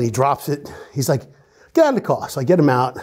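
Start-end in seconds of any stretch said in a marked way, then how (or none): 1.7-2.3 high barked order; command. Retold or imitated. Cop ordering the man out of the car, loud.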